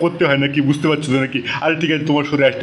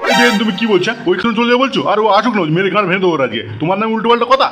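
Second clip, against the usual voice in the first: angry threat; 5 semitones higher than usual. Acted. Threatens son-in-law angrily.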